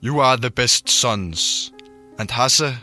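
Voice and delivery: put-on Welsh and Irish accents. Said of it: "jeg lavede bare en walisisk og irsk accent".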